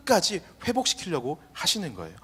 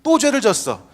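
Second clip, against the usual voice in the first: pretend angry outburst. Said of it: "막 화내면서 막 분노하시면서".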